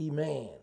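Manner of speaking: "iman" said clearly as ee-MAHN, ending on n; slow teaching say of "iman"; careful pronunciation. Shown as a demonstration. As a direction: spell out "iman" with an n at the end, not an m. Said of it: "you have what you call".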